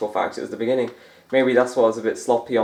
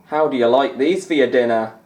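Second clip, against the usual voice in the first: louder, punchier Scottish commentator catchphrase; louder McManus impression; 2 semitones higher, 5 dB louder than usual. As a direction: belt out the catchphrase like a Scottish pundit. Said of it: "as Alan McManus would say".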